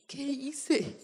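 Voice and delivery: retold remorse. Retells remorse at mother's tears.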